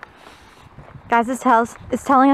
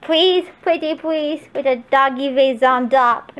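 playful pleading. Pretend. Begging playfully for a favour.

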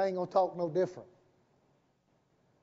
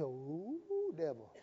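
very soft, drawn-out low aside; retold taunt; 5 semitones lower, 15 dB quieter, much slower than usual. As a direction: draw it out softly at the devil. Retells taunting the devil.

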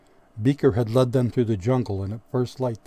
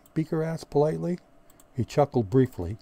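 plain reading voice

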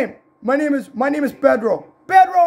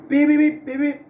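short vocal beep-beep-beep; spoken toy-car beeping; imitated car beeps. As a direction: mimic a little car horn. Imitating vehicle beeps in play.

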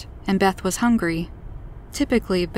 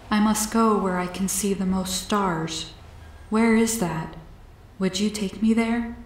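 a hint of an otherworldly visitor; lightly voiced alien. Alien asks Beth to take it to the stars, gently pleading.

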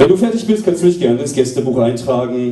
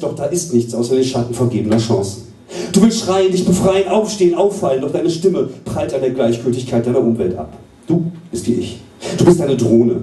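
intense, rhythmic spoken-word delivery; poetry slam recital. Acted. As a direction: perform it as a serious slam poem. Serious poem recital.

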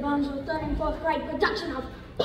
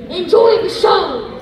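calling out; 5 semitones higher, 11 dB louder, slower than usual. Real, not acted. Announcer calling out to audience.

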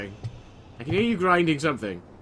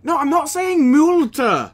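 frustrated shout; 11 semitones higher, 8 dB louder, slower than usual. Real, not acted. Frustrated at voice assistant.

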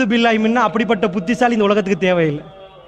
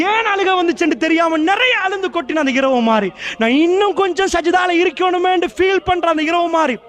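higher-pitched, building sermon delivery; impassioned preaching; 6 semitones higher than usual. Real, not acted. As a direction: preach it with mounting fervour, pitch climbing. Preaches in a rising, impassioned run.

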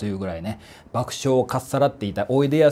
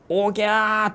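imitated newborn wail; 9 semitones higher than usual. Explaining how people are born crying, imitated baby wail. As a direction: wail it high and long like a newborn, without full volume. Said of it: "大きな声でこう泣き叫びながら".

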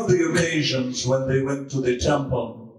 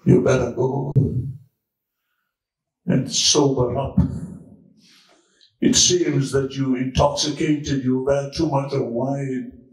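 put-on a lower, stern old priest telling her off; lightly voiced priest, low and dismissive; gruff priest; 4 semitones lower than usual. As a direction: scold her like a priest who thinks she's drunk. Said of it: "Says, Woman".

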